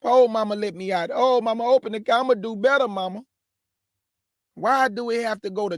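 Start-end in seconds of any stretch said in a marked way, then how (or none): 0.0-3.2 mock weeping kid. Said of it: "whining and weeping".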